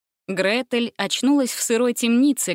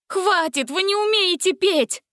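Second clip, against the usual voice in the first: much higher exasperated cry; 11 semitones higher, 3 dB louder than usual. A narrator's reading. Gretel cries out at Dracula, much higher. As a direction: make him stop.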